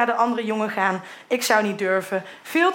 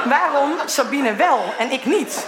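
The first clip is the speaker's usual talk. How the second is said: laughing; 3 semitones higher, slower than usual. Real, not acted. Laughing, slowed reading.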